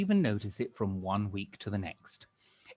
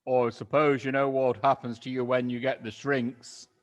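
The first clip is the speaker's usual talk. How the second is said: sly Mister Twit; 3 semitones higher, 6 dB louder than usual. Acted. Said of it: "he said".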